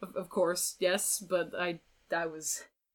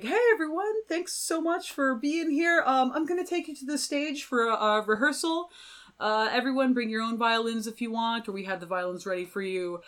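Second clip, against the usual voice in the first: host voice; 4 semitones higher than usual. Retold or imitated. Bald guy addressing musicians.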